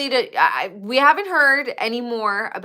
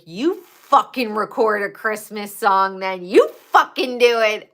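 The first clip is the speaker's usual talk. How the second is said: louder mock rant at Jeff, building; hammed-up angry friend; a hint of a singer snapping; imitating an angry singer; 4 dB louder than usual. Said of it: "When she gets mad and she's like".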